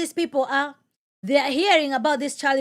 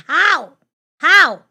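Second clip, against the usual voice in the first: building louder on each how; insistent demand; 3 semitones higher, 8 dB louder than usual. Real, not acted. Preacher presses the audience on revival, louder each time. Demanding answer, rising anger.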